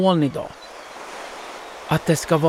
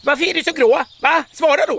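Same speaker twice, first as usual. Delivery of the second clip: very high, squeaky pestering; squeaky teasing; 13 semitones higher, 4 dB louder, faster than usual. A narrator's reading. Another cloud pesters the grey little cloud, squeaky and teasing. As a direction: needle them in a tiny, piping voice. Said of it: "hörs plötsligt en pipig röst".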